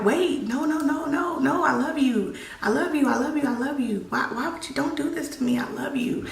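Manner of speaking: high, pleading, fading to a whisper; frantic begging. Retold or imitated. Wife begs knife-wielding husband, high frantic pleading fading to whisper. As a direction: beg for your life, then break into a whisper.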